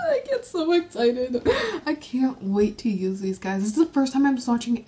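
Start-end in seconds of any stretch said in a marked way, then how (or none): 0.1-1.4 high, teary and thrilled; teary excitement. Real, not acted. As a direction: voice catching with happy tears. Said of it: "It's just making me tear up".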